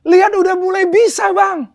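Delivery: high, loud, jubilant calling; imitating an overjoyed friend shouting the news; retold beaming joy. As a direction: call out proudly to show off first steps. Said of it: "muka yang begitu berseri-seri dan bilang".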